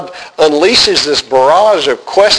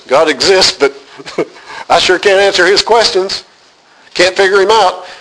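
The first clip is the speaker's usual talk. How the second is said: bright and a little amused, with a laugh before the punchline; amused, lightly raised delivery; Job's version, laughing; 2 semitones higher than usual. Shown as a demonstration. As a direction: chuckle through Job's cheerful admission. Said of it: "Job says".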